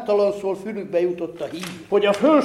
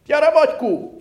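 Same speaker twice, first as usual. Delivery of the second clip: calling out; 9 semitones higher, 6 dB louder than usual. A narrator's reading. Villagers calling the poor man.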